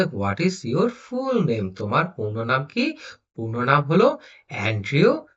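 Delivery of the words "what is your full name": slow reading. Shown as a demonstration. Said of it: "বলছে".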